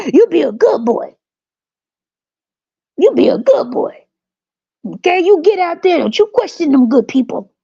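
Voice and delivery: swooping, mostly high-pitched servile character; mock slave parent. Parent teaching a child to obey the masters, hammed-up servile voice. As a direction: play a hammed-up old-time obedient parent. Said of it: "Why are you talking like that?".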